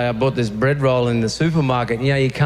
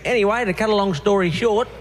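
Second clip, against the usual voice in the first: long-winded guy; 6 semitones higher than usual. Retold or imitated. Guy at the back quoted.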